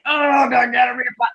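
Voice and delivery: hammed-up crying whine; a mock wail of a complaining party; mock whiny litigant. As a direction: play a sniveling litigant begging off.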